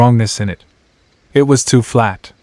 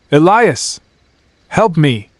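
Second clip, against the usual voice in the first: terrified cry for help; 5 semitones higher, slower than usual. Acted. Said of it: "He sounded terrified".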